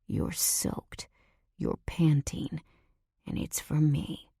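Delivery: lightly voiced seductive menace, mostly breath; menacing man's whisper. Nico looming over her, whispering his taunts.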